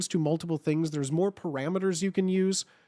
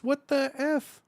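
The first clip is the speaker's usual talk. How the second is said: silly voice; 9 semitones higher, slower than usual. Pretend. Reacting to sub alerts.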